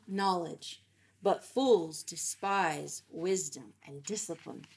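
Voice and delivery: measured, deliberate Bible reading with weighted key words; scripture reading. Acted. Teacher reads Proverbs to the group, measured scripture reading. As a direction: read the proverbs out clearly, phrase by phrase.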